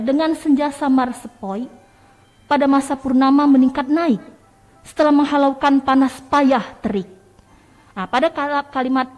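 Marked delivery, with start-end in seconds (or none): 0.0-1.7 "dengan senja samar sepoi" held on an even tune; level intonation. Shown as a demonstration. Teacher reciting a gentle poem line, level intonation. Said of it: "itu masih menggunakan intonasi datar". 2.5-7.1 louder recital, pushing up "meningkat naik" and "panas payah terik"; high intonation. Shown as a demonstration. Teacher reciting rising poem lines, high intonation. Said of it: "intonasinya tinggi".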